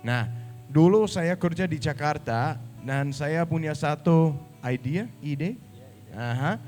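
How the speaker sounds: Danish-accented Indonesian; foreigner speaking Indonesian. Real, not acted.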